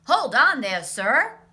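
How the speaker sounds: firm interruption. Acted. Len Smallfry stopping Cousin Dinky, loud interruption. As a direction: cut in hard.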